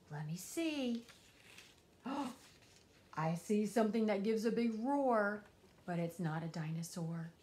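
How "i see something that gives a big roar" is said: surprised gasp. Acted. Finds tiger behind door.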